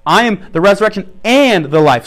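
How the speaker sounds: and given the weight; stress on and. Shown as a demonstration. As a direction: lean on and. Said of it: "just emphasize each one".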